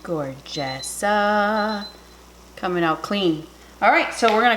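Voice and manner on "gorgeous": awed whisper. Real, not acted. Admiring finished dish.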